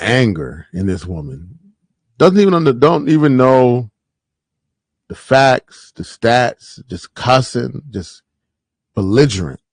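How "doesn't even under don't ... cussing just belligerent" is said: outraged rant. Real, not acted. Outraged at woman in clip.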